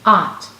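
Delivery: "Ot" said clearly as a sound model; clear sound demo. Shown as a demonstration. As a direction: model the word "Ot" slowly and clearly. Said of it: "Look in your mirror and repeat".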